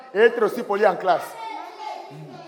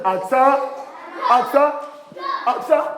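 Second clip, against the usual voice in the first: quick, higher repetitions; 5 semitones higher than usual. Shown as a demonstration. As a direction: hurry the class along. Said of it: "Vite, vite".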